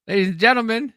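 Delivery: high, loud presenter call; hammed-up emcee intro; mock announcer. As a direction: announce it like a showman. Announcing the video.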